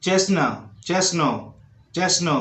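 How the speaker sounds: chestnut said without T; careful "chesna" for chestnut; silent T in chestnut. Shown as a demonstration. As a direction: drop the T sounds from chestnut. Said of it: "उसके बाद बोलना है".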